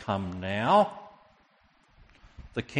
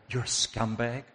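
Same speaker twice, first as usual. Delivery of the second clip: questioning rebuke. Acted. Rebuke, first questioning take.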